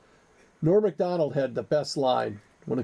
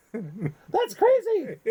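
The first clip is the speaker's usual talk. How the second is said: laughing; 6 semitones higher, much slower than usual. Real, not acted. Laughing at being called crazy.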